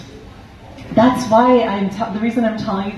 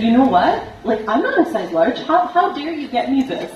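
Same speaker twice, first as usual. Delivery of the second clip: retold angry retort; 4 semitones higher, faster than usual. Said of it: "I was very angry".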